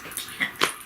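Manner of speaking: unvoiced, giving up; a whispered admission after the rant; defeated whisper. Real, not acted. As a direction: breathe it out in defeat. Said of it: "can't get past the fucking rant".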